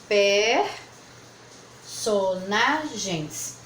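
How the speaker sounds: "personagens" stretched out slowly in chunks; slow syllable split. Shown as a demonstration. Teacher showing the class a word split, slow. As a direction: sound out "personagens" piece by piece, slowly. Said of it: "A terceira possibilidade".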